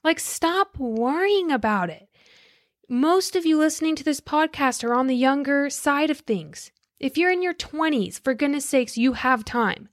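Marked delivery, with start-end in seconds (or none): 0.0-4.8 imitating Gary Vee lightly; Gary Vee impression. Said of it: "he always says".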